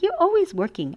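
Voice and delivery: high, whiny little-girl imitation; daughter's complaint. Mom voicing daughter in story.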